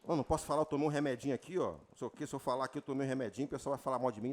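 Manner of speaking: low, hushed nervous murmur; mock timid mumble. Preacher mimicking a timid believer hiding medicine. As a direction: whisper it fearfully. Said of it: "Alô?".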